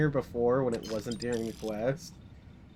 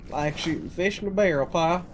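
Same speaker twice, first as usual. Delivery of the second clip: put-on southern accent. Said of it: "I go southern when I hold a shotgun".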